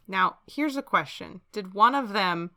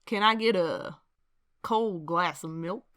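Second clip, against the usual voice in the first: cowboy order. Pretend. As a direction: holler for the barkeep, then slow down. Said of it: "And then I".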